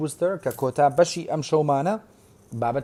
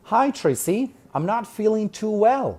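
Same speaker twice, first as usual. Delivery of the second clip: lightly voiced unwell student, pitched higher; reading a sick student; 7 semitones higher than usual. Teacher voicing Lily telling Tracy she feels unwell. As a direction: read Lily's line as a student feeling poorly. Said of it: "با بۆتان بخوێنمەوە".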